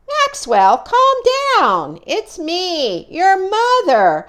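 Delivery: calling mother. Acted. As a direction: soothe a frightened child from a distance. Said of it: "A voice called back".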